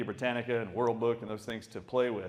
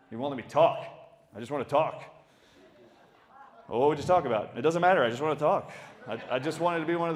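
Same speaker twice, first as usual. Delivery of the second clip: put-on whiny upset kid; 3 semitones higher, 5 dB louder, faster than usual. Kid whining to parents.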